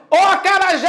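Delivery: high-pitched hail to a friend across the street; calling out. Shown as a demonstration. Teacher calling Acarajé across the street, calling out. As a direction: call "acarajé" high, leaning long on "jé". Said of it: "Você vai chamar".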